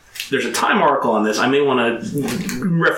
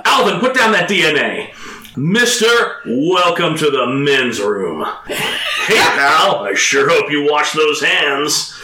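louder, higher, half-laughing call; loud mock quote; 4 semitones higher, 3 dB louder, slower than usual. Quoting a film to his co-host, loud and laughing. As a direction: bark it like a rowdy washroom gremlin.

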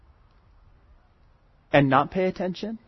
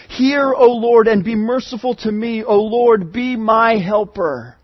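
pleading prayer. Acted. David crying out to the Lord for help, urgent plea. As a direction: call out for mercy with some force. Preacher reading the psalm's plea.

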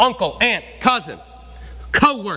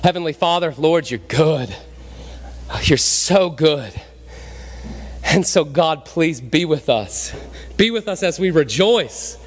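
closing prayer; 3 semitones lower than usual. Acted. Pastor praying over his congregation at the service's end, reverent. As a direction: lead the church into prayer, unhurried.

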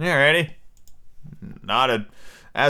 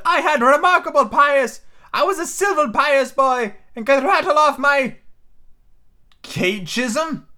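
high, slow rambling castaway; Ben Gunn voice; 11 semitones higher, 4 dB louder, slower than usual. A narrator's reading. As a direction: confide like a lonely hermit.

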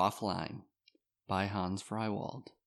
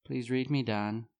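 straightforward; 3 semitones higher than usual. Acted.

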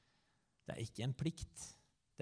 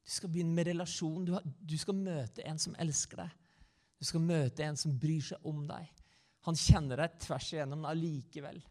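inviting Jesus; 5 semitones higher than usual. Retold or imitated. Preacher voices Jesus inviting people to begin with the Father, inviting. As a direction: voice an eager invitation, pitched up. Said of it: "han inviterer, og så sier han".

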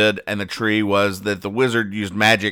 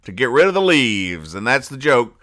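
higher, louder, exasperated sarcasm; mock exasperation; 6 semitones higher, 4 dB louder than usual. Host sarcastically explaining the repeated wizard joke. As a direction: build to exasperated disbelief. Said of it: "the joke here is that".

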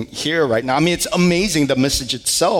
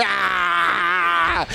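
mock wail. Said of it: "And so we wailed together".

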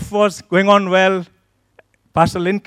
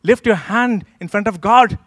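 higher-pitched mock outrage; retold indignation; 4 semitones higher than usual. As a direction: act out scandalised disapproval. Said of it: "I was thinking in my mind".

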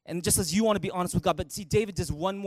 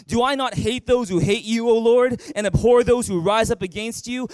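loud, forceful group reading; loud reading together; 4 dB louder than usual. Real, not acted. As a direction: read it boldly, out loud. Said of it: "Read it with me, big loud voice".

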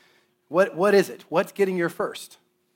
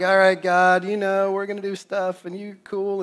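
mock half-hearted prayer, slightly raised pitch; fake praying; 3 semitones higher, 3 dB louder than usual. Admitting fake prayers to the church, half-hearted mock praying. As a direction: pray casually without really meaning it. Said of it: "I sometimes fake pray".

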